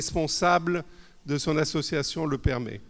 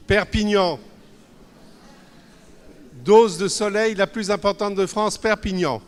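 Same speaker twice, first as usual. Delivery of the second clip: proud emphatic announcement; 6 semitones higher, 8 dB louder than usual. Acted. Presenter hypes sunny hometown.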